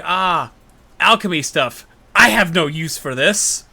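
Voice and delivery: lightly voiced Melly, dismissive; plain. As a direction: toss it off with no interest. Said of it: "Melly is like".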